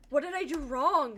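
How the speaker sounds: slow, drawn-out plea; slightly hammed-up bewilderment; retold worried protest. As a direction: imitate a partner who's baffled at being blamed. Imitating partner's worried reply.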